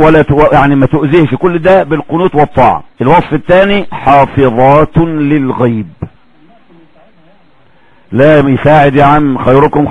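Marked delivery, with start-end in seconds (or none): 3.9-5.9 slow, drawn-out reciting of the phrase; Quran recitation. Acted. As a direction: stretch the words like a reciter. Quoting the second description. (تلاوة بطيئة)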